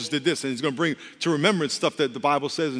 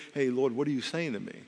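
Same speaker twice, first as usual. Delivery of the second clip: quiet prayerful asking; 3 semitones lower, 6 dB quieter than usual. Shown as a demonstration. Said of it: "You should be asking yourself that question".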